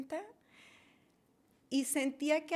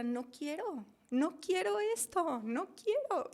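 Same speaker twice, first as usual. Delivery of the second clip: higher, pleading retold protest; panicked plea; 5 semitones higher than usual. Retelling her near-death moment, mildly panicked plea. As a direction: plead against it, voice rising.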